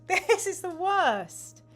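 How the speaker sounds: high, slow wail broken by a laugh; laughing mock despair. Host repeating the complaint through laughter.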